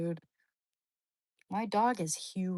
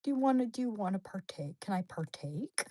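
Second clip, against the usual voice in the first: dog voice; 2 semitones higher than usual. Retold or imitated. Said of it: "looking at me like".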